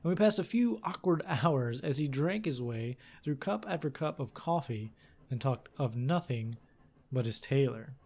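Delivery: measured, lively storytelling read; story narration. A narrator's reading. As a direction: read it like an adventure tale. Reads game text aloud.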